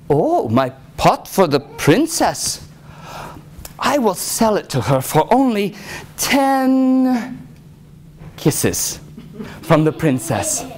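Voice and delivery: slow, lightly voiced swineherd; swineherd naming his price. Swineherd bargaining with the lady in waiting, lightly teasing. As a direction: draw it out teasingly, ten held long.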